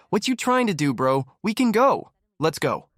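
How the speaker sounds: high, hammed-up challenge to fight; mock tough guy. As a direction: dare him to fight, mockingly. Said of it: "looking at a rapper like".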